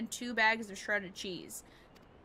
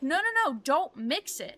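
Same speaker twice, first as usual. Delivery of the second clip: high, loud burst of protest, then settling; mock indignant outburst; retold mad child; 4 semitones higher, 4 dB louder than usual. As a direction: imitate a cross child objecting. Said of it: "then she got mad".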